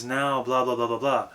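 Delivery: "blah, blah, blah, blah" lifted up, airy and light; airy head resonance. Shown as a demonstration. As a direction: send "blah, blah" up through the top of the head. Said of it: "project more upward and airy".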